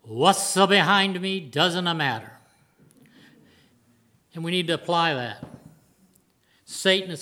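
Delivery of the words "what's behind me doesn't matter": put-on a slow, light Italian-American accent, only hinted. Italian racer in the movie ripping off his mirror, in a light Italian-American accent. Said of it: "in his best Italian-American accent".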